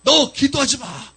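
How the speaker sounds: slowly drawn-out, eerie warning; lightly voiced devil, stretching out the threat; chilling demon voice. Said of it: "아주 그냥 오싹한 말로". (오싹하게 천천히 끄는 마귀 목소리)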